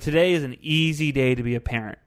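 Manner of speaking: sarcastic mimicking of a smug poster; mocking sing-song imitation. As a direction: parrot it back in a mocking voice. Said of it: "It's like".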